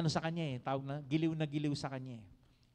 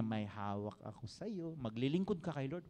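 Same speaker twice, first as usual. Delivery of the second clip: demon taunting; 4 semitones lower than usual. Acted. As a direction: threaten like the devil holding something over you. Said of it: "Sabi niya".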